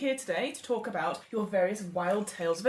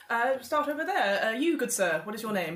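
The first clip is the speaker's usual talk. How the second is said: raised, hearty aristocratic host voice; genial Earl host; 2 semitones higher than usual. Acted. The Earl of Weston-super-Mare welcoming guests to his club, hearty and raised.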